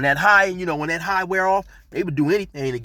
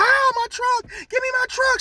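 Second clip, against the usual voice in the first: very high, tearful screaming cry. Retelling how a woman chased their truck: imitating someone screaming. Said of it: "she's screaming".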